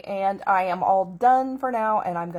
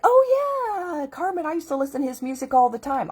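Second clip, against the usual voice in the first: excited recognition; 7 semitones higher, 3 dB louder than usual. Retold or imitated. Excited recognition of old singer.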